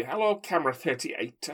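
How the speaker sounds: a bad, half-hearted Scouse accent on camera thirty-eight; mock Scouse, badly done; terrible Scouse accent. Podcast host imitating John Bishop's Scouse accent, badly. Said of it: "That's a terrible Scouse accent".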